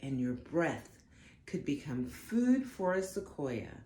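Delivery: gentle storybook read-aloud; unhurried storytime narration; reading to children. Acted. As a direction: read it like a bedtime picture book. Reads picture book aloud.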